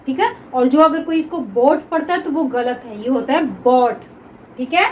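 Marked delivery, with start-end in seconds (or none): 3.0-4.0 बॉट with an open aw vowel, not बोट; bought with aw. Shown as a demonstration. Teacher correcting a wrong reading for students. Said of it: "बोट तो पढ़ेंगे नहीं".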